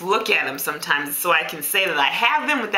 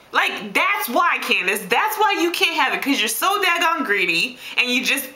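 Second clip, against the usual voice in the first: self-scolding; 3 semitones higher than usual. Acted. Dieter scolding herself over her greed, mildly exasperated. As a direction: lay down the law to yourself, exasperated.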